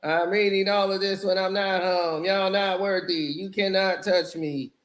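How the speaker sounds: flat, lifeless rap delivery; robotic monotone. Retold or imitated. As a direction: rap it like reading off paper. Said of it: "robotic monotone".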